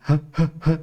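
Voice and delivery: put-on short isolated "ہ، ہ، ہ", like a lisping child; lisping baby-talk sound. Shown as a demonstration. Teacher showing parents the letter's sound, lisped "ہ، ہ، ہ". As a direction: say "ہ" three times in separate little puffs, childlike. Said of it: "یعنی کہ توتلی زبان".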